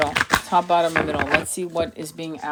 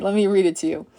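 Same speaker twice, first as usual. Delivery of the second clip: ordinary delivery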